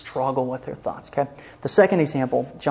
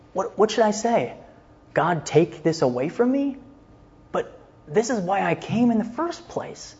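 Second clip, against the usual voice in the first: inner wrestling; 6 semitones higher than usual. Retold or imitated. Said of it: "wrestling match out loud".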